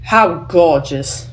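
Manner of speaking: slow, drawn-out sarcastic line reading; unimpressed character, laying on the sarcasm. Shown as a demonstration. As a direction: stretch it out, dry and unimpressed. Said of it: "gotta sound a little sarcastic".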